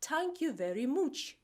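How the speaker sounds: Dublin "tank you very mooch"; Dublin accent. Shown as a demonstration. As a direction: Dublin t for th, oo in much. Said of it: "in Dublin sounds like".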